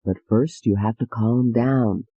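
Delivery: low and slow, calming; slow soothing doctor. Acted. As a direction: ease her down gently and slowly. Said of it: "said soothingly".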